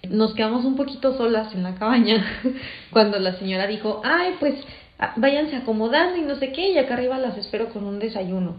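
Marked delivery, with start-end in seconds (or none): 4.0-8.5 sweet landlady. Retold or imitated. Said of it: "Y muy amable la señora".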